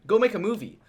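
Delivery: tossed off like a careless order; brash studio boss. Retold or imitated. Voicing the studio.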